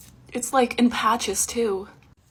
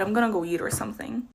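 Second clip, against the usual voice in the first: whispering; 6 dB quieter, faster than usual. Real, not acted. Whispered sad aside.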